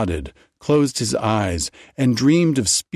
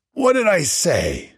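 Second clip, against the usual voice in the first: muttered; 9 semitones higher than usual. A narrator's reading. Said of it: "Joe muttered to himself".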